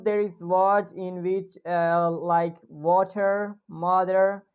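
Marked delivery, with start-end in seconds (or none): 2.7-3.6 "water" in an American accent. Shown as a demonstration. Teacher shows students an American "water", American accent. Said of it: "I'm speaking in American accent". 3.7-4.4 "mother" with an American R; American accent. Shown as a demonstration. Teacher lists examples for students, American accent. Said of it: "I'm speaking in American accent".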